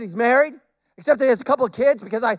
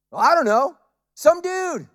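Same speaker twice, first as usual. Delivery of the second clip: higher-pitched, loud who-knows voice; clueless healed man; 7 semitones higher, 4 dB louder than usual. Retold or imitated. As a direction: play him cheerfully ignorant, pitched up.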